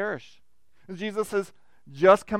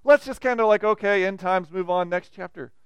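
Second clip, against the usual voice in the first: dismissive shrug; 6 dB louder than usual. Retold or imitated. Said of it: "And so".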